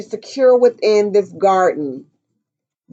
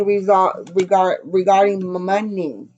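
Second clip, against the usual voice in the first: tripping over the words; stumbling, restarting the words; stuttering. Real, not acted. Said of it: "I'm stuttering".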